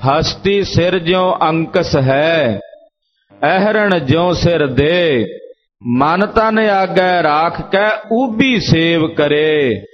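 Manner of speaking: slow, measured scripture recitation; drawn-out sacred verse. Acted. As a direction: recite the verse slowly, stretching the line endings.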